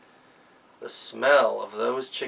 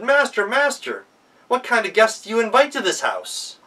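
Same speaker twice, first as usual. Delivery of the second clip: much higher and louder, hammed-up indignation; mock outrage; 10 semitones higher, 6 dB louder than usual. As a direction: Gretel feigns shock to the master about the guest. Gretel feigns outrage.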